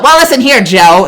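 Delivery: quoting SpongeBob to a chat joke, lightly voiced; SpongeBob quote. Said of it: "It's from SpongeBob".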